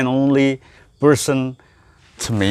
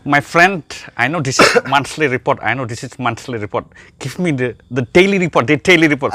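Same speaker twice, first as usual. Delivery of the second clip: put-on Indian accent; 3 semitones higher, 4 dB louder, faster than usual. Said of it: "it's very entertaining English".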